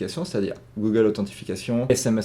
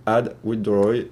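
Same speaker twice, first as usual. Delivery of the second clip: put-on slow, careful English accent on the button label; a self-mocking stab at an English accent; 4 dB louder, slower than usual. Tutorial host reads the button to viewers, in English accent. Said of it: "avec mon accent anglais magnifique".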